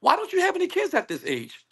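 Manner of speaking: high-pitched, curious question; lightly voiced woman asking with interest; imitated woman asking. Imagined date asks man why he's childless, lightly voiced. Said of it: "here's the right response".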